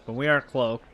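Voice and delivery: talking around a mint; sucking a mint while speaking; mint in mouth. Real, not acted. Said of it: "I have a mint in my mouth right now".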